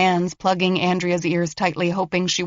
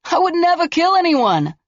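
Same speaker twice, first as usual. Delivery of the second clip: higher, mocking taunt; taunting killer; 11 semitones higher, 5 dB louder than usual. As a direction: sneer at her bluff. Killer denying behind door.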